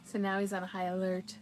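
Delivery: normal talking voice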